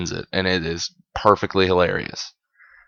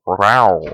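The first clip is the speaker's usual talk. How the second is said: playful growl; 6 dB louder than usual. Pretend. Mock growl at couple making out.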